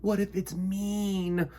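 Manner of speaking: nervous bee asking the queen what lurks; worried little bee. A narrator's reading. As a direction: fret over what might be waiting. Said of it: "Mister Bumble asked".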